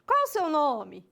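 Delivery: slow question leaning on "nome"; question stress on final word. Shown as a demonstration. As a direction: draw out "nome" at the end of the question. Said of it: "fazer a entonação lá no final".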